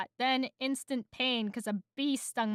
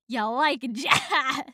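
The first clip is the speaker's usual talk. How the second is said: slightly raised, put-on bee voice; attempted movie-line impression; 5 dB louder, slower than usual. Shown as a demonstration. Reader attempts the film bee's line, hammed-up. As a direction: try the bee's famous line. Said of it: "trying to do a good impression of it".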